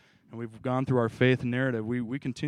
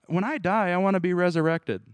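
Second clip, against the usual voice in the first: higher-pitched, lightly mocking wishful voice; mock pious quote; 5 semitones higher than usual. Preacher parodying what Paul supposedly wants, lightly mocking. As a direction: lightly parody a naive believer's wish. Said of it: "I don't think Paul talks like this".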